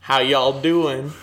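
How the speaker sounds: slow put-on y'all accent; mock Denver accent. Host jokingly greets listeners as a Denverite, mock Denver accent. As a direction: stretch out a fake American regional greeting. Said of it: "That's not a Denver accent".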